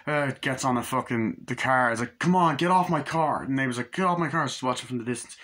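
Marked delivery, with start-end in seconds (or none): 2.2-3.4 raised, higher imitated order; mock angry yell. Shouting at attacker on car. 3.9-4.5 higher imitated shout; mock neighbour's yell. Neighbour shouts in retold scene.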